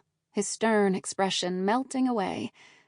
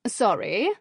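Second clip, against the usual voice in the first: grinning. Acted. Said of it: "she said around a grin".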